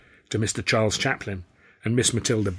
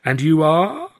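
nervous question; 7 semitones higher, 7 dB louder, slower than usual. Acted. Flustered Arthur asking her name.

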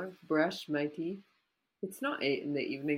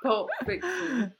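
slow, higher, each word spelled out; slow and clear; 12 semitones higher, slower than usual. Real, not acted. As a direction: say Pulp Fiction slowly so it's understood. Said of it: "Pod Fiction".

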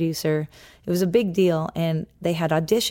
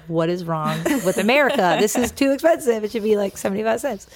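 mild retold outrage, rising higher; outraged; 3 semitones higher than usual. Girl balking at hotel orange juice prices, mildly outraged. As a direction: protest the price, a touch indignant. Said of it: "I just thought it was outrageous".

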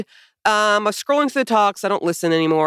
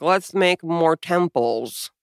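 mock church leaders; much slower than usual. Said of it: "they're like".

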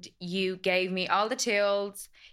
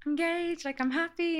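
giddy and happy; 7 semitones higher than usual. Retold or imitated. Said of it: "And I was like".

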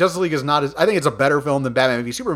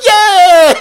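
Yay squealed much higher and louder; Unikitty squeal; 16 dB louder than usual. Retold or imitated. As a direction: burst out in a high cartoon cheer. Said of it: "and she goes".

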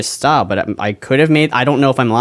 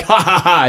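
deep villain laugh; 6 semitones higher than usual. Shown as a demonstration. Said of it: "It's not like".

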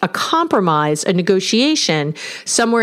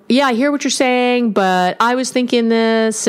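dismissive rebuttal; 4 semitones higher than usual. Shown as a demonstration. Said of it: "even the tone of my voice changes".

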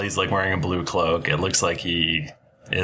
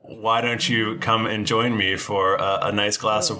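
lightly booming host; 3 semitones higher, slower than usual. Acted. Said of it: "You hear a booming voice back".

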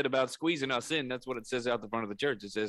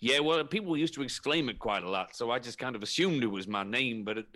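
put-on Southern preacher accent; 3 dB louder than usual. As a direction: lay on a homely Southern American preacher accent. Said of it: "people take me more seriously when I talk like this".

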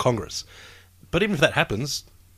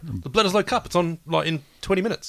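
higher-pitched, eager retold announcement; fired up; 6 semitones higher than usual. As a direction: imitate someone keen for the match to start. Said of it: "He was fired up".

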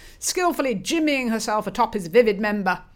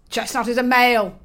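1 pompous father; 3 semitones higher, 6 dB louder than usual. Acted. Father voiced in story.

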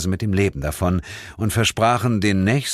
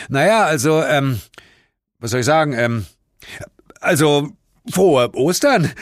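sly grin; 6 semitones higher, 4 dB louder than usual. Acted. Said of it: "mit einem bösen Grinsen zu".

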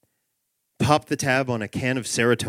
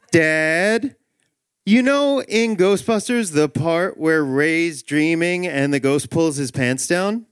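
put-on slow, higher, louder three-year-old question; lightly voiced small child, question lifting at the end; little kid asking; 4 semitones higher, 4 dB louder, slower than usual.

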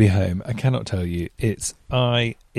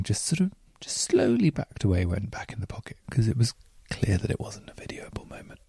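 sheepish fade-out; 8 dB quieter than usual. Retold or imitated. Phone discreetly retreats into pocket.

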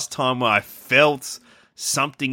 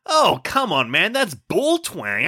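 imitating Mario; 8 semitones higher than usual. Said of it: "and Mario's like".

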